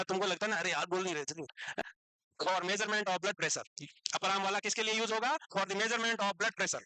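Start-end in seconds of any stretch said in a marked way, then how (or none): 2.4-4.4 very slow, word by word; slow dictation. Shown as a demonstration. Teacher dictating notes to students, very slow. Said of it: "अभी मैं रुक रुक के बोलूंगा". 5.5-6.8 very slow, word by word; slow dictation. Shown as a demonstration. Teacher dictating notes to students, very slow. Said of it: "अभी मैं रुक रुक के बोलूंगा".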